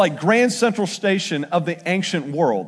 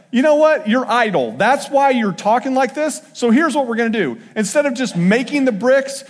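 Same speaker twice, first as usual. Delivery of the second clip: mock angry Pharaoh; 3 semitones higher than usual. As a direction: lay into the lazy slaves like a mocking Pharaoh. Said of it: "Pharaoh's response is like".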